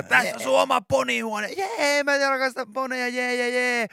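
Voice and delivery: high, slowed cheery jee; gushing makeover host. Retold or imitated. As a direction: present the room like an overexcited host. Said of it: "esitellään ne kaikki hienot".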